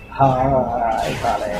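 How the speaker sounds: low, slow, halting greeting. Retold or imitated. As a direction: let it halt and sink low. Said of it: "slow, halting speech".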